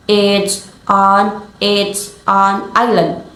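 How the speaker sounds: each word of "it's on island" set apart; big pauses between words. Shown as a demonstration. Teacher showing unconnected speech, big pauses between "it's", "on", "island". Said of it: "with big pauses in the between".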